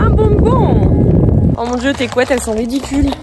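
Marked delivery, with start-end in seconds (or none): 0.0-1.5 "Un bonbon" drawn out very slow and high; cooing treat offer. Real, not acted. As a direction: stretch "Un bonbon" into a high sing-song. ("Un bonbon" très aigu et traînant)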